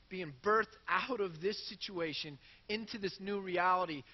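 ordinary delivery

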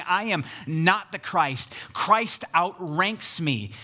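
slow, spaced words stressing "not" and "outranks"; emphatic deflection. Retold or imitated. Preacher paraphrases John pointing to Christ, emphatic deflection. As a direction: lean on "not", then spell out "outranks" slowly. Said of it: "emphatic that Christ outranks him".

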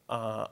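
put-on a short open-mouthed "uh" like a baby leaning in; baby mouth sound. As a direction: imitate a baby's open-mouthed lean for a kiss. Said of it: "like that".

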